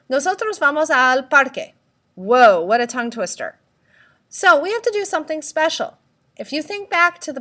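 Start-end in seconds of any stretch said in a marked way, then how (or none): 0.1-1.8 said quickly. Shown as a demonstration. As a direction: run "Nosotros vamos al parque" together quickly, "al" as one syllable. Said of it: "let's try and say that quickly".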